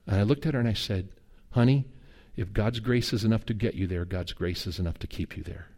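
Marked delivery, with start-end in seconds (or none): 1.5-5.7 low, soft fatherly comfort; gentle reassurance. Retold or imitated. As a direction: reassure a worried child, softening toward the end. Father reassuring his worried young daughter.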